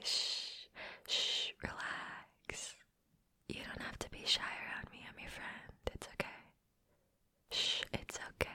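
breathy close-mic hush, soothing; calm them down in a hush; soft ASMR whisper. Acted. To a shy friend she is cuddling, soothing whisper.

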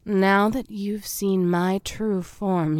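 ordinary talk, nothing marked

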